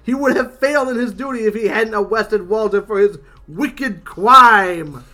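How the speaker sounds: proud comic robot, lightly put on; indignant little robot, punching key words; Walter's robot voice. Walter answers Buck about Judge Dredd, proud cartoon voice.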